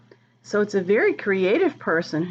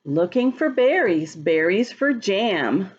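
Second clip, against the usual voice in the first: slow, sing-song rhyme reading; reading to children. Acted. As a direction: read the rhyme slowly to little kids. Reads the rhyming book aloud.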